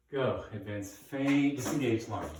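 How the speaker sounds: calling out drills. Shown as a demonstration. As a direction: bark out each fencing move for the class. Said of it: "I'm gonna call it out".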